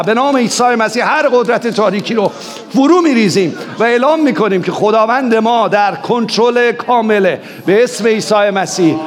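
rising, driving prayer that commands the dark; fiery sermon prayer at full force; fervent warfare prayer. Real, not acted.

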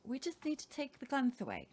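mocking lefties. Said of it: "the lefties are not there saying".

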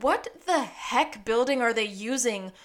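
incredulous outburst, voice jumping up; baffled, lively complaint; indignant. Retold or imitated. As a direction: read your own outraged note aloud. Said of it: "And I just wrote".

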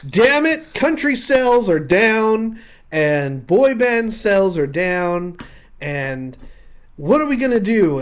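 stressed loud office meltdown; frantic executive. Acted. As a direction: shout it out like a desperate record exec. Panicked record executive in office.

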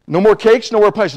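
comic acted-out dismay; dismayed pleading. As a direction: plead for each treat in turn. Retold dismay at forbidden foods.

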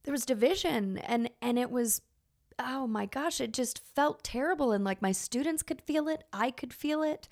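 real emotion, voice lifted and tight; fighting back tears while remembering; moved teacher recalling a divided classroom, tearful; tearing up. Real, not acted. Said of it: "I'm tearing up just thinking about it".

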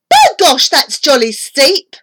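high, loud start then falling; outraged mother; indignant cry. A narrator's reading. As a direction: exclaim in shock at the price. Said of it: "She cried".

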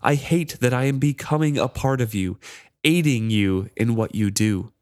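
a spiteful charm relishing his torment; cruel mocking charm. The charm replied savagely.

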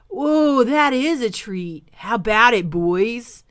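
rally your crocodile friends; eager crocodile. Acted. Crocodile calls the other crocodiles, eager and excited.

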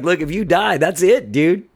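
high, loud imitated ultimatum; mock blunt wife. Wife tells husband about resuscitation, high loud mock ultimatum. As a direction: lay down the law as the imitated wife. Acted wife lays down the law.

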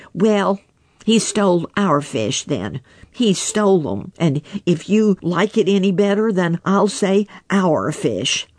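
a hint of a cheeky mink conceding; mink arguing. Billy Mink argues.

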